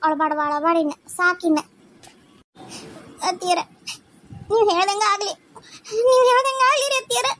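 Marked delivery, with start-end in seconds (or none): 3.3-5.3 held-back tears, still near her normal voice; tearful. Acted. Daughter-in-law yields to her mother-in-law, tearfully. Tearful agreement, first take. 6.1-7.3 higher, louder, breaking into sobs; crying plea. Acted. Daughter-in-law gives in to mother-in-law, sobbing.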